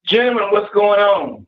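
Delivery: distant, echoey phone line; far from the phone. Real, not acted. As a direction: speak from across the room. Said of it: "Why you sound like you far from the phone?".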